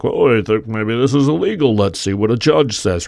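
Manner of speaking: lightly mimicked hesitant bystanders; mock tentative. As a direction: put on a mildly dithering voice. Voices everyone else's hesitant response.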